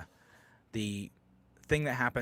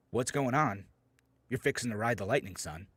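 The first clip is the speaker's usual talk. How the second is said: a hint of a threatening cop, a bit louder; lightly voiced cop taunting the driver; mock menacing cop; 3 semitones higher, 5 dB louder than usual. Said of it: "what a inappropriate way of doing that".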